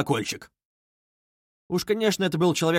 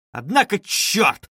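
slow, raised impatient exclamation; impatient curse; 5 semitones higher, 3 dB louder, slower than usual. A narrator's reading. Koch cursing impatiently at the wait. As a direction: swear in irritation. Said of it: "закричал он вдруг и в нетерпении".

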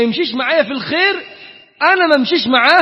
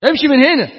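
half-acted yell to go away, louder and higher; mock shout; 6 semitones higher, 6 dB louder than usual. Friends shouting at the preachy friend to leave, mock shout. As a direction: shoo him off loudly.

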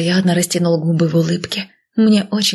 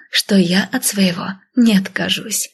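usual speaking voice

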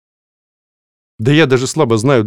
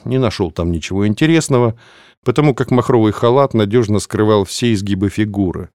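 ordinary talk

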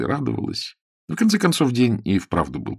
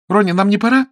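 urgent prompt; 11 semitones higher, 8 dB louder, faster than usual. Acted. Sue urges Ronnie to leave.

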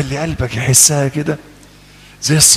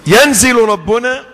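amused mock quote; 8 semitones higher, 4 dB louder, slower than usual. Mock quoting hadith, laughing.

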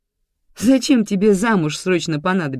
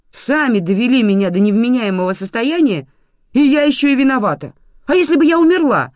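climbing higher and louder, outraged; rising indignation; 9 semitones higher, 9 dB louder than usual. A narrator's reading. Mother to grandmother, blaming her for the pills, outraged and shrill. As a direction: let the hurt outrage build to a shriek.

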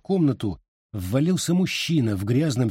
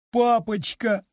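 high tearful cry; 11 semitones higher, slower than usual. A narrator's reading. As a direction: cry out to father, weeping. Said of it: "заплакала Марина". (заплакала, вскрикнув)

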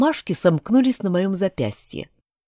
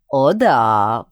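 sinister laugh; 4 semitones lower, 5 dB louder than usual. Acted. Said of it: "вдруг зловеще рассмеялся Альберт".

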